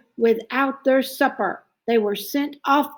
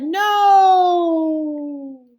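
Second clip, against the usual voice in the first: higher, louder flat no; firm refusal; 8 semitones higher, 4 dB louder than usual. Acted. Max refusing the wild things firmly. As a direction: refuse them with finality. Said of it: "And Max said".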